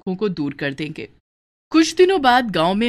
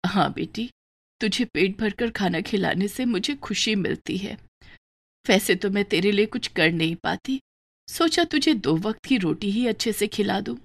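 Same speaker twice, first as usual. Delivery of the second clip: a sick poor mother speaking gently; lightly voiced frail mother, subdued; weak mother; 2 semitones higher than usual. Weak mother talks to daughter.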